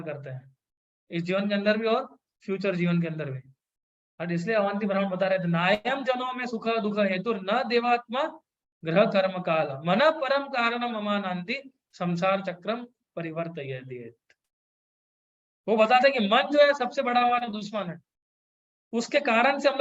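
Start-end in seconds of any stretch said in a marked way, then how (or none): 5.5-14.1 slow verse recitation. Acted. Quoting a Sanskrit verse.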